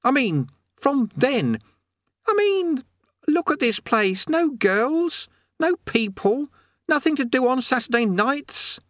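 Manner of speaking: high, slow frantic pleading; boy panicking about his wish. Acted. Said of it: "said Eric frantically".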